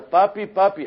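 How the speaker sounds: high, loud scared call for daddy; child's frightened cry. Retold or imitated. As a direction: scream for help as the dog bites. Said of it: "Y grita". (niño gritando asustado, agudo y fuerte)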